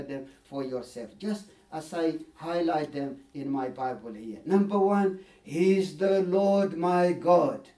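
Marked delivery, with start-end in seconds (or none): 5.4-7.7 "Lord" held long and slow; stress on Lord. Shown as a demonstration. Preacher proclaiming God's first attribute, slow and weighty. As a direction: lean slowly on "Lord" then "my God". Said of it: "You see, the Lord my God".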